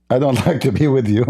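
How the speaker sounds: laughing through a mock rebuff; laughing retort. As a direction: laugh while turning him down. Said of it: "So who like to be with me?".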